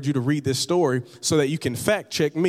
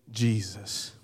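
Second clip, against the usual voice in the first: hushed name; 6 semitones lower, 7 dB quieter than usual. Real, not acted. Whispered name of Jesus in sermon.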